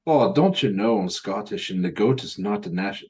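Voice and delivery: light mock Scottish accent; a hammed-up Scottish lilt, half-hearted. Friend asks for it, he plays it in a light mock Scottish accent. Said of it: "say it in my Scottish accent".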